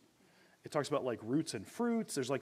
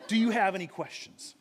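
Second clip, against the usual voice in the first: laughing; 5 semitones higher, 6 dB louder than usual. Real, not acted. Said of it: "laughs at finishing early".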